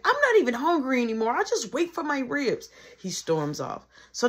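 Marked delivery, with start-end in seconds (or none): 0.0-2.7 put-on sulking kid. Little brother sulking.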